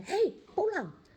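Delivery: high, drawn-out fatherly call; calling from afar. Retold or imitated. God as a papa calls the child home, long high call. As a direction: call a child home from far away, stretching the words. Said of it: "Dari jauh dia bilang".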